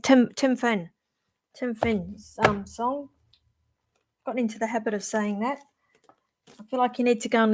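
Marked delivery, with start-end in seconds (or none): 0.0-3.1 New Zealand accent on the name; Kiwi accent. Shown as a demonstration. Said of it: "I'm gonna do it my Kiwi accent".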